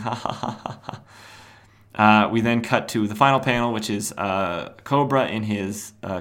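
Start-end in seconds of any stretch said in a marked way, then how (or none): 0.1-1.0 a soft, mock ha ha ha; imitated laugh. Host imitating Superman laughing at the joke, soft mock laughter. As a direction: act out Superman cracking up. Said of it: "And he's laughing".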